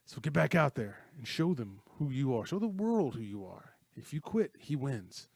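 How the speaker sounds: rally him to get back out there; emphatic retold encouragement; retold pep talk. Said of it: "The line was just like".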